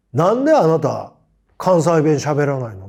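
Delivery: loud, pointed question like a Kansai teacher; teacher's challenge. Retold or imitated. Kansai teacher demands to know why he hides his dialect, loud. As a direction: press him like a stern teacher, loud.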